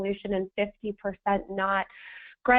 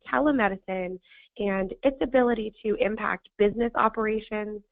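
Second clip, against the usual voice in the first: hoarse, scratchy sandpaper voice. Real, not acted. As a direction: push through a hoarse, sandpaper throat. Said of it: "I sound like sandpaper today".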